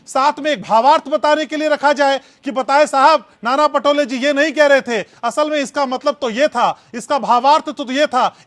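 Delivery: loud mocking suggestion; sarcastic mockery. Real, not acted. Anchor mocks the spokesman's defence of the statement, loud sarcasm.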